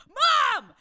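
high, loud cry to mother; mortified daughter. Retold or imitated. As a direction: call out in mock exasperation. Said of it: "I'm like".

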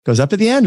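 "goes up at the end" pitched high, climbing on "end"; rising question tune. Shown as a demonstration. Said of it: "your voice typically goes up at the end".

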